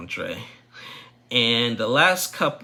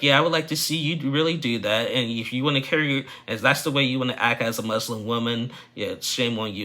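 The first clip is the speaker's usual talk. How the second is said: retold retort; 3 semitones higher than usual. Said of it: "they're screaming back and forth".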